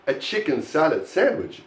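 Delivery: salad picked out as the word that matters; stress on salad. Shown as a demonstration. Teacher gives an example of meaning, stressing salad. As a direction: lean on salad. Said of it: "it has to be chicken salad".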